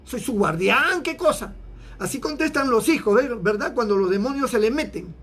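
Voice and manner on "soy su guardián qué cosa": higher, defiant backtalk to God; insolent Cain. Acted. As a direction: toss the questions back rudely, hammed-up.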